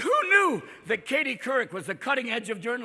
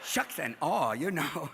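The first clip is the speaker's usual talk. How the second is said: put-on Fargo accent; 5 semitones lower, 4 dB quieter, slower than usual. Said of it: "that Fargo accent".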